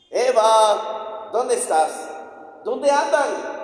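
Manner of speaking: empieza grave y lento y va subiendo hasta un llamado alto y fuerte; llama como un padre que busca a sus hijos; Dios llamando. Acted. Dios llama a Adán y Eva. (Dios llama a Adán y Eva en el huerto, voz que crece)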